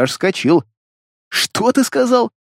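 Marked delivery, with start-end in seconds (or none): 1.3-2.3 high, slow disbelieving question; can't believe what he heard; high incredulous what did you say; stunned. A narrator's reading. Hero stunned by demon.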